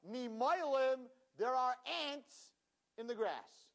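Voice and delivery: high, slow mock giant; giant's voice. Giant telling his friend, a hammed-up giant call. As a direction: voice the giant calling out.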